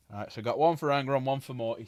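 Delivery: stuffy, blocked-nose voice. Real, not acted. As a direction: talk through a blocked nose. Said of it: "I need to blow my nose".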